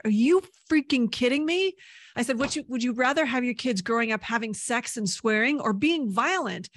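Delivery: high, loud indignant challenge; heated protest. Retold or imitated. Teen confronting the class over TV, loud heated protest. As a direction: push back hard and incredulous.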